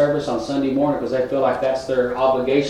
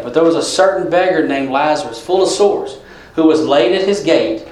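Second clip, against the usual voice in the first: reading scripture to the congregation, raised voice. Acted. Preacher reads Luke sixteen to the church, formal reading voice.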